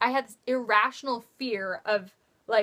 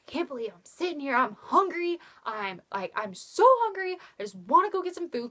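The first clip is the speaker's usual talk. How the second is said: higher, rising whine about being hungry; high, fast self-pitying whine; mock whiny complaint; 4 semitones higher than usual. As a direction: imitate her own hungry whining. Retold whining while waiting.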